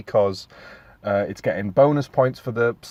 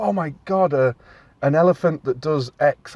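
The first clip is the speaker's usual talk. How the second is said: higher-pitched mock amazement; blown away; 5 semitones higher, 4 dB louder than usual. Child watching the elephant on screen, blown away. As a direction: act out a child's wonder, voice lifted. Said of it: "imagine them being blown away with it".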